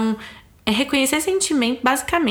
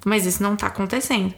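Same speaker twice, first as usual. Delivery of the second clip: calm agreement; 2 semitones lower than usual. Retold or imitated. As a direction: gently invite her to make a deal. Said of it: "no momento que tá todo mundo calmo".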